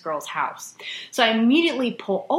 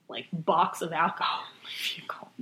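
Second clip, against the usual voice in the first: whispered inner panic; panicked whisper; 4 semitones lower, 7 dB quieter than usual. Retold or imitated. Teen panicking about the alcohol, in a whisper. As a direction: whisper it like hiding a secret.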